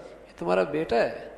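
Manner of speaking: mild astonishment, voice lifting at the end; understated surprise; surprised question. Shown as a demonstration. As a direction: ask it as if you can hardly believe it. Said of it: "حیرت کا اظہار ہے".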